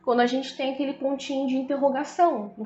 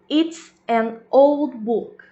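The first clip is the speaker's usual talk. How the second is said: loud slow example; 6 dB louder, much slower than usual. Shown as a demonstration. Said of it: "um outro exemplo aqui".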